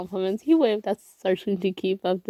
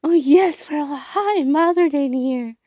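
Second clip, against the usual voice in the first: high-pitched put-on voice; 7 semitones higher, 3 dB louder than usual. A narrator's reading. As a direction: voice pushed much higher than his own. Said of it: "called out in a voice more high-pitched than his own".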